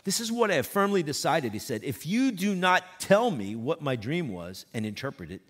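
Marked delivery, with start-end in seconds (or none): 0.0-1.5 loud, higher royal decree; emphatic king. Acted. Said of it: "Nebuchadnezzar is emphatic about this". 1.8-5.4 stern king. Acted. King threatening his astrologers.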